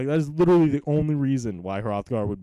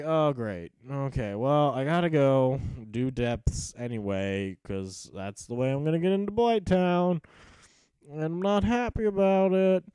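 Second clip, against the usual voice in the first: grumbling. Retold or imitated. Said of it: "So I'm like".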